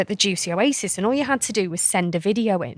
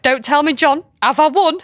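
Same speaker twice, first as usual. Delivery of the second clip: excited guess; 6 semitones higher, 7 dB louder than usual. Retold or imitated. Phone call, guessing she won.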